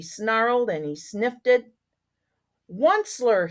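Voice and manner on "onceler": croaking Lorax cry. Acted. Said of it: "he cried with a crufulous croak".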